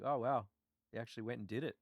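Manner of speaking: faint praise, Aussie style; understated Australian compliment. Retold or imitated. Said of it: "most Australian sounding compliment".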